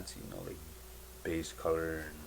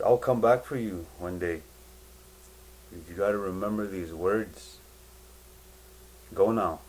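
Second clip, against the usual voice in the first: firm promise; 5 dB louder than usual. Retold or imitated. Jesus promising and sending away.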